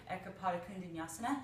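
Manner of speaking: Ekapada Kundanyasana said quickly as a Sanskrit name; Sanskrit pose name. Shown as a demonstration. Yoga teacher naming the pose Ekapada Kundanyasana quickly. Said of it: "The pose that I just went into".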